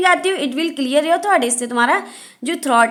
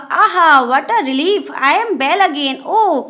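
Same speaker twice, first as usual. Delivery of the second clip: relieved joy; 2 semitones higher, much slower than usual. Acted. Healed red flower thanking rooster, joyful relief. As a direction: let the relief burst out.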